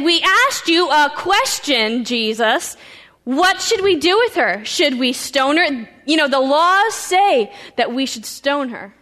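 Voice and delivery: loud, insistent demand; frustrated Pharisees pushing Jesus to judge; pressing accusers. Acted. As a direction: press him hard for an answer.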